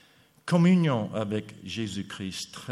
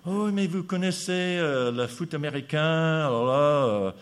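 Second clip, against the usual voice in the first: imitation de l'organisateur; 3 semitones higher, 4 dB louder than usual. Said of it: "J'ai dit".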